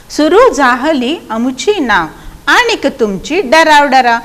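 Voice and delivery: slow, lilting verse line; poem recitation. Shown as a demonstration. Teacher reciting the boats and frogs line, slow recitation. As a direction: recite it slowly in measured beats.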